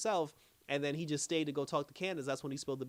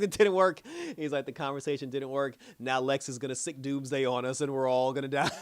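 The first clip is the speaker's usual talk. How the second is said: freaked out; 5 dB louder than usual. Retold or imitated. Clark panicking to himself that the talk failed. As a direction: blurt it out like everything just went wrong. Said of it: "Clark freaked out".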